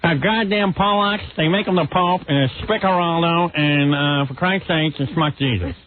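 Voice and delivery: mock columnist spewing insults; Ann Landers impression. Host parodying a columnist trying to shock, mock ranting. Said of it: "trying to be a shock advice columnist".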